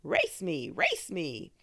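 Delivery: mild playful shout of the train. A narrator's reading. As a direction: call it out like a rumbling train daring him.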